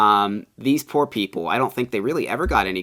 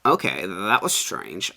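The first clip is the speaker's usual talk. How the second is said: calm composure; slower than usual. Shown as a demonstration. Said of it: "be like".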